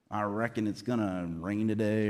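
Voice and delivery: lightly put-on cowboy accent; terrible cowboy accent. Preacher joking about watching Westerns, mild mock cowboy accent. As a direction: toss in a hint of a bad cowboy accent. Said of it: "terrible cowboy accent".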